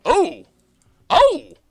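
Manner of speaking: bright excited "oh!"; thrilled by a great hand; excited gasp. Real, not acted. Reacts to a great opening hand.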